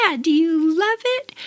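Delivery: high, bright eager question. Retold or imitated. Teen asks the best man about her puppy gift, high and eager. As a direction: ask it hoping for praise.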